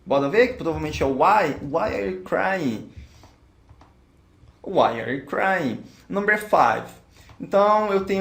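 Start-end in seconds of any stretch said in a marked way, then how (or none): 1.6-2.9 each word clear and unhurried; slow, careful English. Shown as a demonstration. Teacher to students, modelling the question slowly. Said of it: "models the answer for students". 4.6-5.8 each word clear and unhurried; slow, careful English. Shown as a demonstration. Teacher to students, modelling the question slowly. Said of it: "repeats the model answer".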